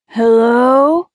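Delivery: a carrying hello; calling out. A narrator's reading. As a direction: call out to see if anyone's inside. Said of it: "he called".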